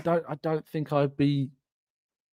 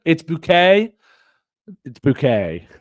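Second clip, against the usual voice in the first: prim, higher mock insistence on "boo-KAY"; Hyacinth Bucket; 5 semitones higher, 7 dB louder than usual. Hyacinth correcting her neighbour, prim mock voice. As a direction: correct him primly, bouquet "boo-KAY". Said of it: "It's Missus Bouquet".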